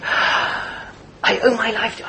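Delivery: breathless gushing thanks. Retold or imitated. Moshel, gushing thanks to dignitary.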